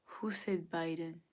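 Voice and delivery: hushed mock-menacing interrogation; quietly hunt the culprit, playfully. Mock interrogation of Biden voters.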